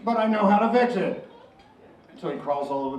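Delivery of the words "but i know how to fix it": confident snake. Acted. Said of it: "And the snake says".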